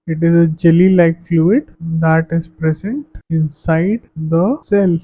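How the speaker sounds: very slow, even reading of notes; slow classroom dictation. Acted. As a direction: spell the definition out for students to copy. Dictates English definition.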